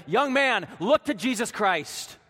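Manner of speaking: loud, high call from the pulpit; retold preacher's shout. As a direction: cry out urgently to one listener, imitating a preacher. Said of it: "And then he shouted".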